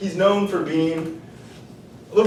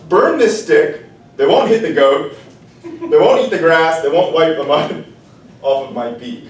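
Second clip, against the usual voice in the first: bossy rooster order; 3 semitones higher, 5 dB louder than usual. Acted. The rooster ordering the fire, loud and bossy. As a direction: rattle off the chain, bossy.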